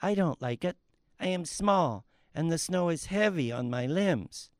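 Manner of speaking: soft little-tree whine; the small tree grumbles about the snow, softly whiny; whining. Acted. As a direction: complain quietly like a small sad tree. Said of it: "Oh, quit whining".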